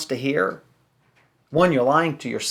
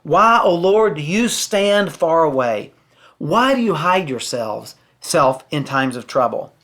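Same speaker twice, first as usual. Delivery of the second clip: louder, lifted psalm reading; scripture reading; 3 dB louder, slower than usual. Acted. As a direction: read the lament out with weight, slowly. Reads psalm aloud in sermon.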